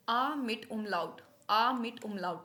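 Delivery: आ मिट umlaut slowly, opening on long "ah"; German umlaut name. Shown as a demonstration. Teacher naming the extra letter, आ मिट umlaut said deliberately. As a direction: umlaut as "oom-lout" in आ मिट umlaut. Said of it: "इसको बोलते हैं आ मिट umlaut".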